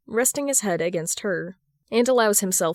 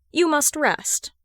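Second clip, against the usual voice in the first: firm informing; 8 semitones higher, slower than usual. Acted. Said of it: "little Darling informs".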